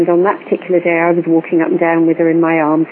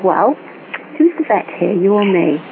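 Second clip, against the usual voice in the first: ordinary delivery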